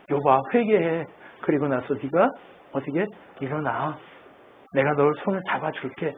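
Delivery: softly voiced reassurance in a retold quote; gentle encouragement. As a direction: quietly coax someone back up. Voicing a comforter helping the fallen.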